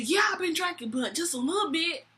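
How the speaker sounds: high-pitched imitation of a defensive drunk; mock drunk admission. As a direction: own up as the tipsy customer. Drunk date admits drinking.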